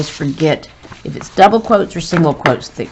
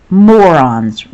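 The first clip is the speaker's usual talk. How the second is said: a sharp, louder exclaimed Morons; exclaimed insult; 6 dB louder than usual. Shown as a demonstration. Reads Vizzini's insult with emphasis.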